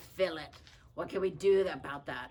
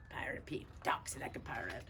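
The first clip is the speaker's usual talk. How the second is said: whisper; 5 semitones lower, 5 dB quieter than usual. Shown as a demonstration. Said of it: "whispered title".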